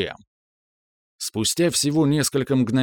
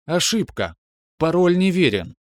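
higher, level computer voice; calm metallic voice; 7 semitones higher than usual. Acted. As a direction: object calmly like a machine. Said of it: "спокойный металлический голос".

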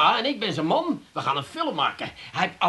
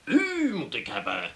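imitated film director. Man retelling the director's offer, mock-grand. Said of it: "En plotseling zegt hij".

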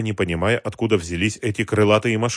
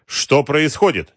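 mildly displeased slow question, pitched up; 6 semitones higher, 4 dB louder, slower than usual. A narrator's reading. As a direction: demand an account with measured displeasure. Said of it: "недовольно спросил президент". (сдержанно-недовольный, медленный вопрос)

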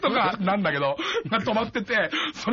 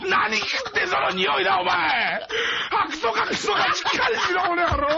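mock angry old man; 13 semitones higher, slower than usual. Grandpa angrily retorting in skit.

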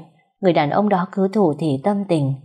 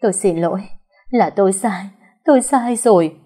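rising to a higher, louder wail by the end; a touch of sobbing, building louder; sobbing apology; 3 semitones higher, 5 dB louder than usual. Acted. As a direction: beg forgiveness through tears. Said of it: "vừa chạy vừa khóc nức nở".

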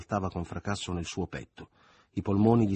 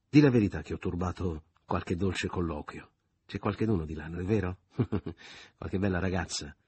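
sly teasing; 3 dB louder than usual. Acted. Leo teasing Michele with laugh.

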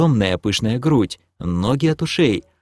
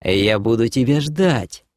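promising. Acted. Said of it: "пообещала демоница".

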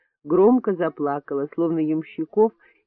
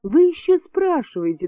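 exclaiming higher; 11 semitones higher than usual. A narrator's reading. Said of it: "воскликнула Клавдия Петровна".

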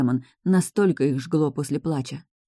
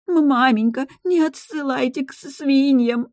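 high stammering sob-cry; tearful wail; 10 semitones higher, 4 dB louder than usual. A narrator's reading. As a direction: cry out begging, voice breaking. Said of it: "надрывно закричала".

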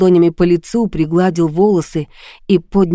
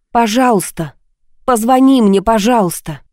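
raised, pleading voice, highest on позвони мне; loud plea; 4 semitones higher than usual. Acted. Woman alone begs her lover loudly to call her. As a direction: call out a begging please to the empty house. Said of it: "попросила громко".

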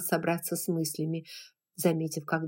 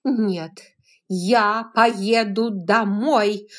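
slow, louder shouted refusal; shouting; 4 semitones higher, 9 dB louder, much slower than usual. A narrator's reading. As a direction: dig in and shout it out. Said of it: "закричала она".

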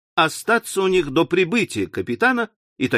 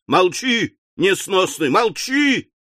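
shushing angrily; 4 semitones higher, slower than usual. Acted. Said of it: "сказала миссис Напкинс".

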